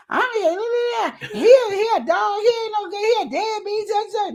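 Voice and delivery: high, pleading mock rant; mock ranting mom. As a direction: ham up a mother's tearful complaint. Mother ranting to kids.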